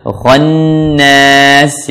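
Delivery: "Khannas" with the N hummed long; long gunnah. Shown as a demonstration. Teacher showing gunnah, "Khannas" with lengthened N. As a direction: hold both N and final A of "Khannas". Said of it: "Jadi nunnya dilamakan".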